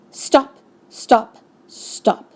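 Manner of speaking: high, staccato calls to halt; alarmed protest, each word on its own; urgent interruption. A narrator's reading. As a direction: break up the fight in separate bursts. Doctor breaks up a quarrel.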